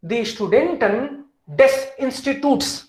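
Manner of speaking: slow example phrase. Shown as a demonstration. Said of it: "इसमें S लगेगा".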